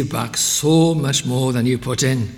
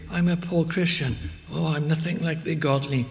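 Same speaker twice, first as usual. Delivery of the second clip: higher, lightly voiced self-pitying believer; mock humble believer; 5 semitones higher than usual. Preacher voicing a listener who feels unworthy, lightly higher. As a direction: imitate a doubting Christian, mildly pitiful. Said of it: "Ah, you might say".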